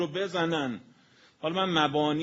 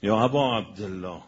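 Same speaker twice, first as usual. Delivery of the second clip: retold cry out; 2 semitones lower, 4 dB louder than usual. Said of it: "بلند داد زد".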